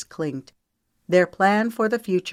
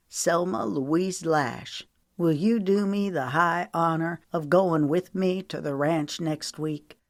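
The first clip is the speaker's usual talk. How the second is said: ceremonious. Acted. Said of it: "cleared his throat ceremoniously".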